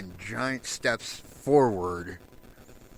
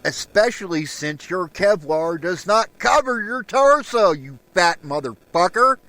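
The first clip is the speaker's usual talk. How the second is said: louder and higher, spitting contempt; angry rant; 3 semitones higher, 4 dB louder than usual. Real, not acted. Mocking armed racists, loud and scornful. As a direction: lay into them with scorn.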